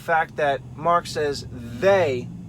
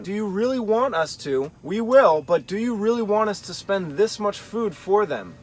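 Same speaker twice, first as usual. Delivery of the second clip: sincere, earnest asking; a genuine offer, mildly earnest; honest question; 3 semitones higher than usual. Shown as a demonstration. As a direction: ask it plainly and honestly, willing to do it. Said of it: "Or you could see it as an honest question".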